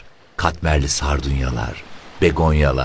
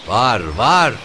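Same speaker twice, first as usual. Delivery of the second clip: high, loud woman calling back from inside; a screechy, sweet, cross woman answering; shrill woman's voice; 8 semitones higher, 4 dB louder than usual. Acted. Woman answers from inside the shack, high shrill call. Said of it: "çığırtkan, tatlı, cırlak, öfkeli bir kadın sesi".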